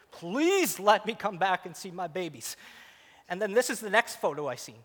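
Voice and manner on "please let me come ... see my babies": slow plea with a drawn-out "Please"; pleading prayer. Retold or imitated.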